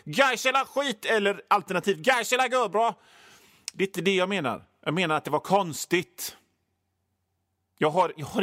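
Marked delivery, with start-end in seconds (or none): 0.0-3.0 high, protesting mock voice; imitating a listener's outburst; imagined indignant listener. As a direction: object like an affronted fan. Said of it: "jag vet hur ni tänker, ni som lyssnar".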